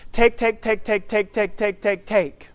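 each "take" hit hard, one after another; repeated take. Shown as a demonstration. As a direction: hammer "take, take, take" like a drumbeat. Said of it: "it reads like this".

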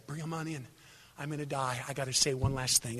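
soft, low deathbed voice; dying old man. Acted. Old father summoning his family to his deathbed, weakly. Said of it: "I'm now hoarse because I'm dying".

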